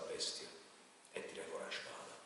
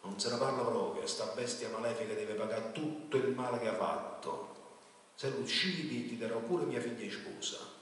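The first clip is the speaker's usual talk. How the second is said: loud, higher, unyielding command; king's stern refusal; 4 semitones higher, 6 dB louder than usual. A narrator's reading. King orders the knight to kill the dragon, loud and stern. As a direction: slam the door on mercy.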